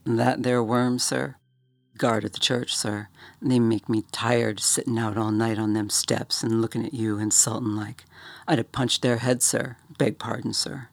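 lightly voiced Cockney bellhop, sniffing with disdain; a hint of a scornful London servant; a touch of Cockney contempt for the guard. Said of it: "Thomas sniffed".

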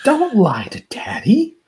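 high, slow, drawn-out mock scolding; freaking-out dad. Dad admonishing his daughter, freaking out. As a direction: imitate an overwrought father. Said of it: "Alan's freaking out".

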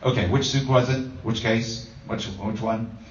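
husband fetching the suitcase, peeved; irritated questions. Retold or imitated. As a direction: fire off the questions, exasperated. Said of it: "you go like".

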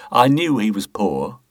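Boothby hamming up his charity to the inspector; mock pious. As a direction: lay on false piety like a man pleading his goodness. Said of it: "tried his best to affect a pious air".

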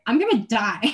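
loud retold panic, breaking into laughter after; re-enacted distress with no real tears; mock bawling. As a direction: imitate melodramatic despair, loudly. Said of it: "bawling my eyes every single changeover".

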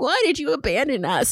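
lightly voiced tearful child; mock-wounded little voice; childish plea. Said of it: "looking up at them crying".

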